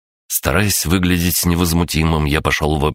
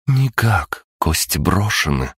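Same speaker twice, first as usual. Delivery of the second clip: higher-pitched goddess in a firm refusal; lightly voiced goddess; 4 semitones higher, slower than usual. A narrator's reading. Goddess refuses the narrator's plea, lightly voiced and higher. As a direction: give a hint of a goddess, pitched up.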